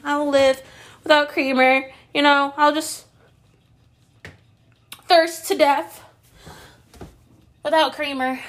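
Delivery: high, loud overdramatic lament; mock dramatic. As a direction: play the tragic martyr over creamer. Melodramatic complaint about creamer.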